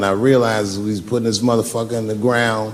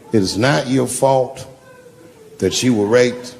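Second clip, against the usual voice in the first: mock consoling; 2 semitones lower than usual. Slow mock consoling of heckler.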